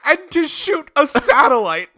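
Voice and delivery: high, slow gleeful shout; gleefully adding to the absurd list; excited exclamation. Acted. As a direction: pitch it up high and drag it out for the joke. Excited joke addition.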